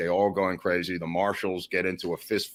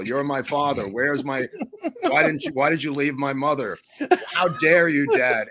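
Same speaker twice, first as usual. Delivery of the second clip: higher-pitched mock outrage; mock yelled accusation; 5 semitones higher than usual. Defendant heckles the judge as his father, mock yelling. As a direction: imitate an aggrieved heckler's yell. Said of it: "Abby Hoffman is yelling".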